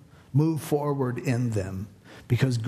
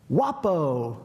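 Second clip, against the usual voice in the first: stranger calling out. Retold or imitated. Man on the next bench calls Wapo, calling out. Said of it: "he goes".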